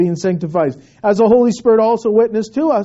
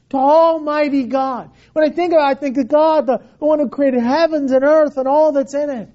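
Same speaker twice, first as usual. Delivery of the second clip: raised preacher's voice; emphatic preaching; 6 semitones higher than usual. Acted. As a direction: build up the wonder of access to God.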